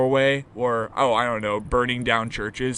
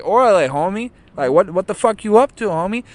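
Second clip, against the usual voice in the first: higher, louder mock Mexican accent; 7 semitones higher, 7 dB louder than usual. Shown as a demonstration. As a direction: put on a Mexican-accented homie voice, pitched up. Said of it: "in a Spanish accent or a Mexican accent".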